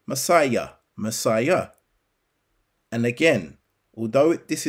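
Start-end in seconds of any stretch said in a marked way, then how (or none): 0.0-1.7 Messiah said twice, deliberately, ending in an audible "yah"; English pronunciation. Shown as a demonstration. Preacher showing Yah's name in the English title, Messiah ending on a clear "yah". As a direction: sound out Messiah as "muh-SIGH-yah". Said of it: "even in the English pronunciation".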